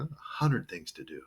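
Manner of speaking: "hundred" said as "hunnerd"; reduced D. Shown as a demonstration. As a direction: turn the end of "hundred" into "nerd". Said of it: "the drud becomes a nerd".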